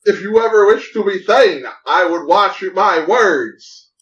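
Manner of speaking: Jarl voice. Acted. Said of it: "Don't talk that way to your Jarl".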